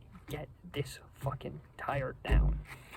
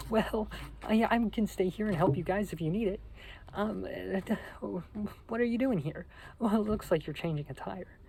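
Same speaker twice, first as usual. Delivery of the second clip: higher-pitched fruity little guy; high-pitched Josh; 4 semitones higher than usual. Retold or imitated. Josh turns up offering to help with the tire, high-pitched voice. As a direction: raise the pitch for a hesitant little-guy impression. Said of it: "fruity little guy with a high-pitched voice".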